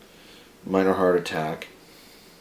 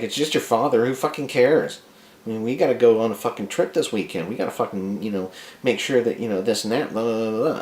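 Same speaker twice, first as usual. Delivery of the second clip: raised-pitch mock of an uncaring wife; wife's dismissive scolding; 4 semitones higher than usual. Wife dismissing husband's grief for his father, imitated scolding. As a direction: brush him off, voice pitched up a bit.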